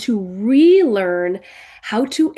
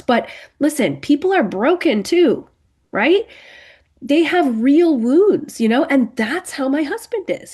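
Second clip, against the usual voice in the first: higher-pitched voice of a protesting wife; imagined objection; 5 semitones higher, 4 dB louder than usual. Acted. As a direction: push back, pleading your husband's case. Voicing the listener's imagined objection.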